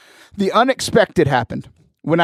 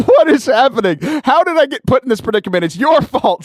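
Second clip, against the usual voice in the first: exasperated; 7 semitones higher than usual. Retold or imitated. Texting friend in mock panic.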